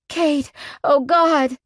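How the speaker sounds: high, loud, drawn-out cry. Acted. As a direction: let it burst out, slow and high. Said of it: "I cry out".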